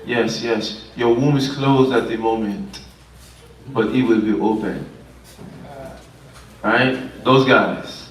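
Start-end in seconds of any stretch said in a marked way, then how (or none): 0.1-4.9 lightly put-on fortune-teller voice with measured pauses; imitation psychic giving a reading; mock fortune teller. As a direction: pretend to read the future, pausing between phrases. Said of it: "Somebody like to do fortune telling".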